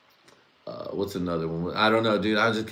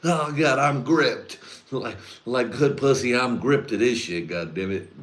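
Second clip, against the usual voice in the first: 1 gripped viewer; 4 semitones higher than usual. Retold or imitated. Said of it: "He's like".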